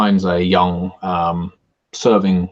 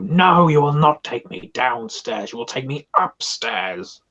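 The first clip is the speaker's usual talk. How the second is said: pained injured man; 6 semitones higher than usual. Acted. GM voicing injured NPC in pain.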